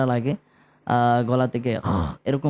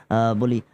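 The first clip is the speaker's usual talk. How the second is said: cooling sigh; 3 semitones lower, slower than usual. Shown as a demonstration. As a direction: breathe out an ahh like cold air in the mouth. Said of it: "এরকম একটা শব্দ করি". (ঠান্ডা খাওয়ার পর আরামের আহ)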